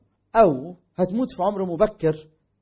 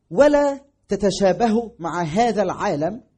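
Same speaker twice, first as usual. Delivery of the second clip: slow scripture reading; 3 dB louder, slower than usual. Acted. Reading verse slowly.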